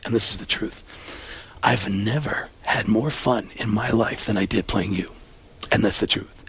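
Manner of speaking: a smooth apology delivered softly; Alec Baldwin impression. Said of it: "Alec Baldwin".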